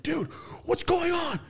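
high, drawn-out mock alarm; Claudio. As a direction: cry out like a panicked partner. Acting out partner's alarmed message.

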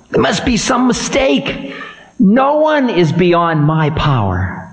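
high, ominous voice of Time; stern ancient Time. Acted. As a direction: warn the demon of doom. Time voice again.

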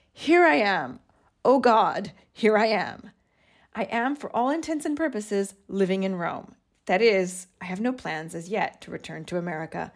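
put-on reading an old diary entry with feeling; a touch dramatic reading of her own old journal; journal read aloud.

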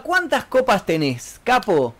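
cocky Buenos Aires slang, drawn out; Argentine banter. Acted. Streamer teasing a viewer who asked the country, Argentine banter. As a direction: tease in a thick porteño accent. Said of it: "¿de qué país te parece que soy".

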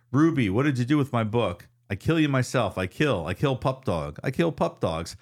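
lightly voiced drunk threatening the dog; a hammed-up growl of a threat; mock menacing drunk. Reads Owen's threats to Ruby.

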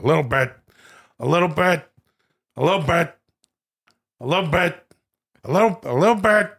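lightly mannered, squeezed-down catchphrase; Al Pacino doing Robert De Niro. Acted. Pacino quoting De Niro over and over, lightly mannered mimicry. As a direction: slur "little" into a mannered impression. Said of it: "This is Pacino's impression of De Niro".

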